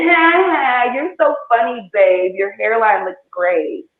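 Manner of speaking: mock-sweet teasing laugh; facetious. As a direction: tease him with fake praise. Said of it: "facetious when I kept saying".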